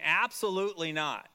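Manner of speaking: firm, stressed "Absolutely"; emphatic denial. Retold or imitated. Teacher paraphrases the biblical denial, emphatic. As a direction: land hard on "Absolutely", then fall on "not". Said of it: "this emphatic de-, denial".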